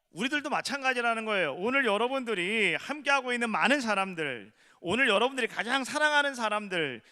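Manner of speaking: fervent sermon call to the whole church; full-force preaching. Acted. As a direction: drive the appeal home from the pulpit.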